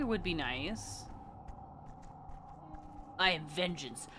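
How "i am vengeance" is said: brooding edgelord voice. Pretend. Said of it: "I can't do it with a straight face".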